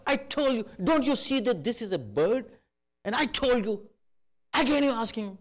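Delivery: high, loud exasperated scolding; angry son. Retold or imitated. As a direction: shout at the old father who keeps asking. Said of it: "with so much anger".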